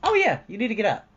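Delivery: high, loud bossy inner voice; a pushy alarm in her head; body's voice. Retold or imitated. Her body ordering her out of bed, high and loud. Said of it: "literally kicks in and goes".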